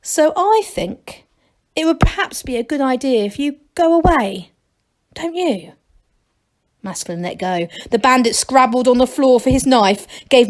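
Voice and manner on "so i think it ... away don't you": nervous. A narrator's reading. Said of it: "said the chief nervously".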